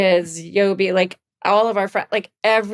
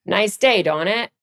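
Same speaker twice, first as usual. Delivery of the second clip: put-on New Hampshire accent. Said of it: "my favorite New Hampshireism".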